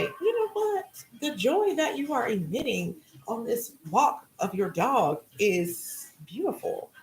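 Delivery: a stranger stopping you on a walk, tender and gushing. Retold or imitated. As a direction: voice a passerby touched by your joy. Stranger praising your dog walk.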